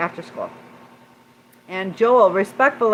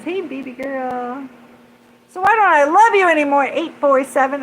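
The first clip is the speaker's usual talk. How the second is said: playful read; 7 semitones higher, 5 dB louder than usual. Acted. Reading a chat message aloud.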